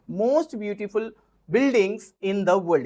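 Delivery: each word spelled out slowly for students to write; slow dictation. Shown as a demonstration. Slow dictation of example sentences.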